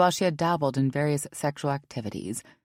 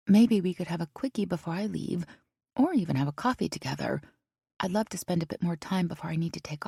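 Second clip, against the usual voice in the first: put-on eager young woman; 3 semitones higher than usual. McKinley's voice, hopeful.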